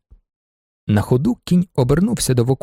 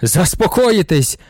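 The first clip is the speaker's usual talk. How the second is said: indignant cry; 3 semitones higher, slower than usual. Acted. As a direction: throw the word back at him, stretched out. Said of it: "крикнув директор".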